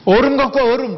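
husband in a hurry yelling for cold water; impatient demand. Retold or imitated. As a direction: bark it at the wife, in a rush. Rushed husband demanding ice.

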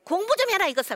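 high, loud mock scolding; loud imitated nag at a struggling child; nagging mom. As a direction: scold the kid like a fed-up mother. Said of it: "뭐라고 얘기하죠?".

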